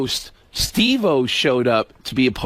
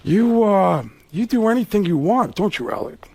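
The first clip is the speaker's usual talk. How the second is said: Pacino impression. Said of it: "Pacino's looking, going".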